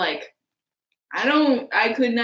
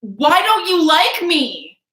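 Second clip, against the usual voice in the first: whiny; 6 semitones higher, 5 dB louder, slower than usual. Retold or imitated. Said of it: "you're like".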